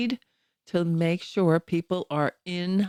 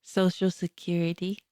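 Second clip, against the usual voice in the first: grandma voice. Pretend. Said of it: "your grandma voice or something".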